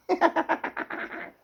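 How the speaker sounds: high, breathless burst of laughter; real laugh. Real, not acted. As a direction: crack up at your own remark. Laughs at his own aside.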